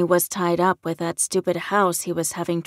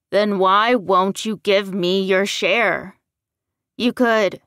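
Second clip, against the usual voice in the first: loud, pressing demand; heated challenge; 7 dB louder than usual. A narrator's reading. Son demanding his share of the money, heated. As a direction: push the question at him forcefully.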